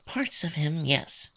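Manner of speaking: barely audible whisper; whispered admission about a crush. Acted. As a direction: drop to a hushed confession. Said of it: "lowered his voice to the point where I almost can't hear him".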